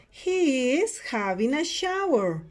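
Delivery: slow, spaced-out repeat; slow it down for students to copy; model sentence for repeating. Shown as a demonstration. Teacher repeats picture seven for students, slow model delivery. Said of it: "Repeat after me".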